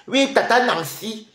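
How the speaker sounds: slow, high sing-song "tata Nancy"; sugary mock politeness; mock sweet greeting. Streamer mockingly greeting her rival in a drawn-out sing-song.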